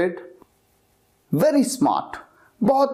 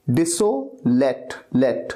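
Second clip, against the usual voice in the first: डिसोलेट slowed down, then its last part लेट on its own, lower; slow careful repeat; 5 semitones lower, slower than usual. Shown as a demonstration. Teacher repeats डिसोलेट slowly for learners, careful. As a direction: break डिसोलेट apart so they hear लेट. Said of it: "बहुत सही तरीके से आपको pronounce करना है".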